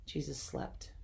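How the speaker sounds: soft unvoiced whisper. A narrator's reading. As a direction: hush it like a lullaby ending. Quiet ending of story section.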